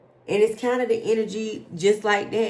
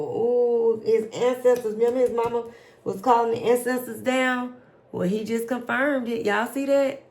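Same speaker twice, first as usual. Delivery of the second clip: excited; 5 semitones higher, 4 dB louder than usual. Real, not acted. Excited at confirming card.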